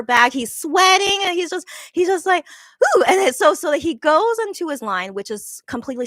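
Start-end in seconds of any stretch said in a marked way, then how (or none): 3.0-3.0 tired huff. Retold or imitated. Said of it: "huffing and puffing".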